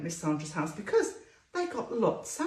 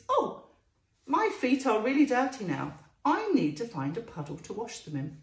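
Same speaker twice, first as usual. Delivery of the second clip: lightly voiced little guinea pig, a touch dismayed; a hint of a fussy little pet; guinea pig thinking. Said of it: "she thinks".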